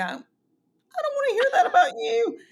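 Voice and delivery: high, loud squeal of disgust, laughing; mock disgusted husband. Boyfriend recoiling from her bathroom talk, high laughing squeal. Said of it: "he would go".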